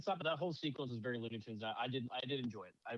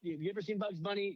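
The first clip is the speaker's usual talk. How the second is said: mock alien question; 8 semitones higher, 4 dB louder than usual. Aliens quizzing Bugs, retold.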